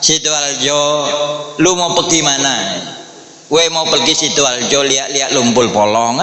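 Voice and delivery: r turned to l, lightly put on; Chinese-Indonesian accent imitation; mock Chinese accent. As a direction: tease the Chinese accent, r sounding like l. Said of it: "R jadi lam toh".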